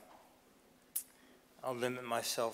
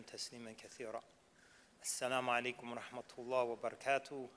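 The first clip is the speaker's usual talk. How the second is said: Arabic invocation; much faster than usual. Acted. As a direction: rattle off the opening prayer quickly under the breath. Opening Arabic invocation before speech.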